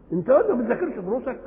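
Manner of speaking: mock astonishment, pitch lifted; astonished reproach. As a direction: scold with a surprised question. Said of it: "كأنك تعجبت وأنكرت ألا يذاكر".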